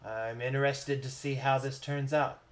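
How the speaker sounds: softly voiced, understated wise figure; a hint of a knowing mentor, hushed and low; wise smiling mentor. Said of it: "with wise eyes and smiles".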